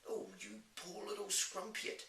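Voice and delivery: giant's high-pitched cry of sympathy; pitying cry. A narrator's reading. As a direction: exclaim in pity as a kindly giant. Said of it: "cried the B F G".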